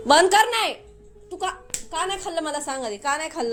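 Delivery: high-pitched demand for an answer; refuse, then press for the reason; real scolding. Real, not acted. Mother demands why son did not eat, scolding. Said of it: "आज तुम्ही बघाच मी तो ओरडते".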